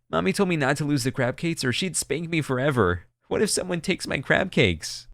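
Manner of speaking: put-on little girl fretting, close to crying; tearful child. Scared little girl to kind passenger, tearful worry. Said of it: "She then burst into tears".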